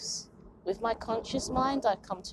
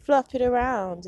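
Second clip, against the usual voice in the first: bossy mock Tyra, higher and louder; imitating Tyra; 4 semitones higher, 4 dB louder than usual. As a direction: snap it out like a TV host critiquing hair. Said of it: "she's like".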